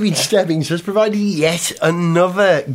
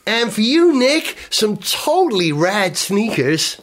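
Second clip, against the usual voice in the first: put-on American accent; 3 semitones higher than usual. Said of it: "You're not American".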